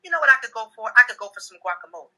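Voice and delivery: light, offhand mention; imitating a wife's casual aside; casual hint. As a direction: drop it casually as if it means nothing. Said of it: "my wife will casually say to me".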